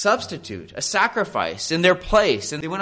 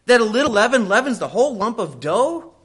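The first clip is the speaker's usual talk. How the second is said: higher, louder, fervent thunder on the verse; preached verse; 7 semitones higher, 5 dB louder than usual. Shown as a demonstration. Pastor driving Paul's warning home, higher and louder. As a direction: hurl the verse at the congregation. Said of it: "Don't you know, Paul says".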